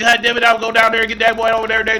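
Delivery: mock Southern accent. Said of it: "To all my folks down south".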